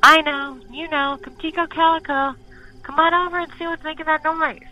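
high, loud call across the yard; calling the dogs. Acted. Smitty calling his dogs from the door, loud and high. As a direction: holler it out to the dogs. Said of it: "called out to his dogs".

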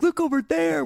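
very high, delighted imitation; mock-excited instructor. Instructor to student in the air, mock excitement. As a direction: call it high with exaggerated wonder.

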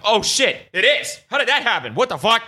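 hammed-up surprise at his own nail; mock surprise. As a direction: play dumb and act stunned. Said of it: "been like".

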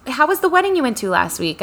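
a gentle mock of a sweet eighty-something client; a hint of a high old-lady voice. Retold chat with elderly client.

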